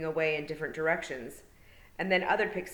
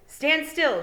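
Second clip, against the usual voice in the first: higher, louder order; commanding shout; 11 semitones higher, 9 dB louder than usual. A narrator's reading. Tiffany warns the boy on the horse, commanding shout. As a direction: bark the command to stop him. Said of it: "she shouted, trying to sound commanding".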